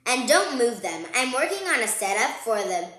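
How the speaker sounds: a touch of an indignant brother; protesting brother. Acted. Brother defending his dinosaur models to Sister, mild protest. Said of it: "Brother protested".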